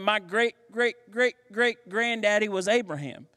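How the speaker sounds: high, bragging voice of a proud Paul; cocky boast, voice lifted; boastful smack talk. Retold or imitated. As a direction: brag it up, pitched high. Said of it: "he is smack talking".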